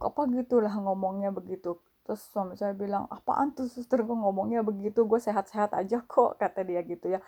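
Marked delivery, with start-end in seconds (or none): 3.1-6.4 mildly indignant. Retold or imitated. Husband scoffing at the nurse's warning, mildly indignant. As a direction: lightly imitate a husband brushing off a warning.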